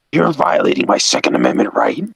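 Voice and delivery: lightly voiced indignant truck; Jamie. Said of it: "truck Jamie is like".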